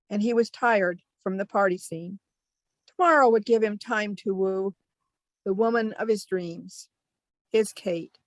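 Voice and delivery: measured verse recital, pausing after lines; poem reading. Acted. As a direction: read it as a storytelling poem. Reads own narrative poem aloud.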